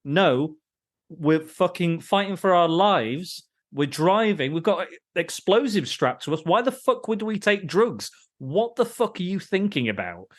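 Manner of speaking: high, incredulous mock rant; mock exasperated scolding. Podcaster imitating the driver's outraged refusal. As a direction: lightly play the fed-up driver.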